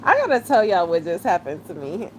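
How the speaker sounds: laughing. Real, not acted. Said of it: "I'm about to cry in laughter".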